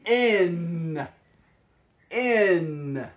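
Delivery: "In" with the tongue tip behind the teeth; slow clear "In" for a learner. Shown as a demonstration. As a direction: show the n with the tongue. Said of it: "See how my tongue touches behind my teeth?".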